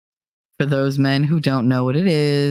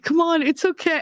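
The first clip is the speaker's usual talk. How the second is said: mock soothing nurse; 12 semitones higher than usual.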